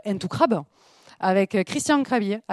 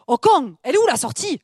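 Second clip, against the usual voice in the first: lightly voiced southern accent, a bit raised; southern prisoner; 5 semitones higher, 4 dB louder than usual. Escaped prisoner asking where the exit is, mild southern accent. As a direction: ask for the exit with southern twang. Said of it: "C'est Les Évadés".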